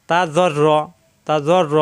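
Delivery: জ্বর র with thick, rounded consonants; heavy letters. Shown as a demonstration. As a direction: hold the doubled র in জ্বর র, full and heavy. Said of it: "জ মোটা হবে". (জ্বর র মোটা আওয়াজে)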